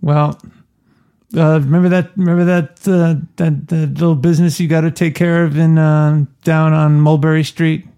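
second attempt at imitating the co-host; lightly put-on, halting friend impression; Andy. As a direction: mimic your co-host hemming through a reminder. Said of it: "let me try it again".

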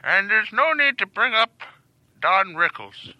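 put-on old man voice. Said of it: "Stop talking like an old man".

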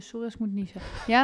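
talking through a coming sneeze; about to sneeze; holding back a sneeze. Real, not acted. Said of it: "ik heb trouwens echt het gevoel dat ik moet niezen". (inhouden van een nies)

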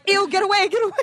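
mock disgusted shriek. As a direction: shoo the hair off in mock horror. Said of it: "I'm like".

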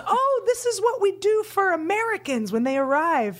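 high, laughing excuse that climbs; nervous laughing cover. Retold or imitated. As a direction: cover the slip with a flustered laugh. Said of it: "So he goes".

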